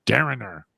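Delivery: "Darren her" run together as "Darrener"; Darren with added R. Shown as a demonstration. Joking about added Rs, "Darren her" as one word "Darrener". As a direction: tack an extra "-er" onto "Darren her". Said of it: "put an R on the end of Darren".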